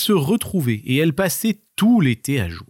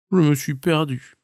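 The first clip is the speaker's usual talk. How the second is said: sheepish marmot; 3 semitones higher than usual. Acted. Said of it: "avoua penaud notre marmotte".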